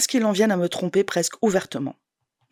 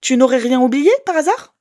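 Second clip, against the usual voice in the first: biting, louder and higher; acerbic and hard; 6 semitones higher, 8 dB louder than usual. Acted. Woman snapping at her ex on the phone, acerbic. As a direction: cut him off, hard as flint. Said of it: "j'ai la voix acerbe et dure comme du silex".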